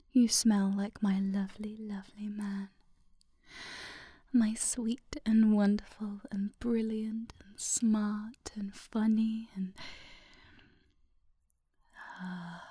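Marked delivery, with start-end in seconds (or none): 4.3-12.6 trailing off. Real, not acted. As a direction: whisper fading into a sleepy uh. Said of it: "Trailed off, sorry".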